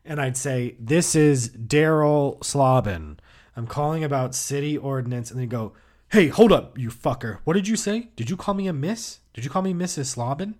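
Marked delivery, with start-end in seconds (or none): 0.8-5.3 slightly higher, lightly voiced telemarketer; put-on caller voice. Caller introducing himself to a household, lightly put-on voice. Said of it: "I would change my voice". 6.1-10.5 high-pitched indignant questioning, no real shouting; mock angry outburst. Misgendered man challenging the caller, mild mock outrage. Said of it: "they'd scream at me and insult me".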